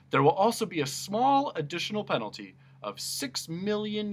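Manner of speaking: high and loud decree; pompous sentencing. Acted. Judge pronounces Milo's penalty in a grand loud voice. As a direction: deliver a grand ruling.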